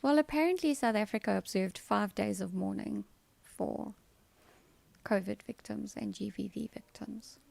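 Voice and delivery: dry sarcasm, key words leaned on; mock-serious, emphasizing words to mean the opposite; sarcastic. Real, not acted. Vlogger mocking the government's mourning days, sarcastic. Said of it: "that was sarcasm".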